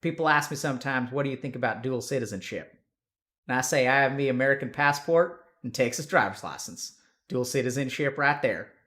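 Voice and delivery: emphatic put-on Texan; Texan accent. Shown as a demonstration. Streamer joking about his dual citizenship, Texan accent. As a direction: tell it like a proud Texan. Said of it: "we can do Texan".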